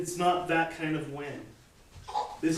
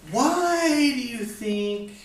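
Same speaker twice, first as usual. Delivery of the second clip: rhetorical speaker question; 5 semitones higher than usual. Shown as a demonstration. Teacher demonstrating a speaker's rhetorical question to a group. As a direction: ask the crowd like a speaker, stretching it. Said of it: "you were getting up in front of a group".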